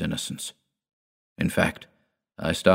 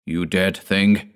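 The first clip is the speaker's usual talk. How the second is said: slow contempt; 3 dB louder, slower than usual. Acted. Dord curses his father.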